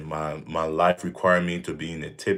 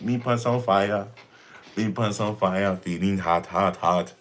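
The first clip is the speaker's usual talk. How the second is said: mock Caribbean accent. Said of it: "I would love to come to the Caribbean".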